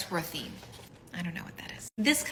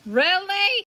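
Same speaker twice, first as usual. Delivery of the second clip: 1 exasperated; 9 semitones higher, 7 dB louder than usual. Real, not acted. Exasperated reaction.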